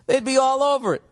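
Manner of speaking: high, excited comic squeal; giddy squeal. Acted. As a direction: squeak it out in mock alarm. Joke about pigs eating him.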